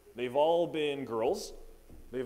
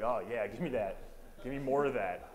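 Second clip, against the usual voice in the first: eager dream voice. Retold or imitated. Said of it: "That's how I talked in my dream".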